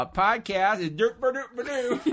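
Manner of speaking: silly high nonsense babble; goofy derp voice. Pretend. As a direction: babble it like a goof.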